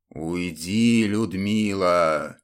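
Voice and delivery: low, slow voice from the grave; sepulchral voice. Acted. Dead templar orders Ludmila away in a low, slow grave voice. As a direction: grind it out like a corpse speaking. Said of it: "процедил загробным голосом".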